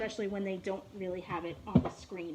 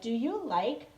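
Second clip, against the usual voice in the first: slow, friendly prop questions; slow teacher prompt to a young student; teacher demo; slower than usual. Shown as a demonstration. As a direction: coax a young learner with props. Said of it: "and I'll be like".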